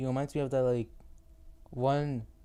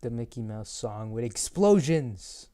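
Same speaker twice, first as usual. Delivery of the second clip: mock announcement; 3 dB louder, slower than usual. Announces a mock song version.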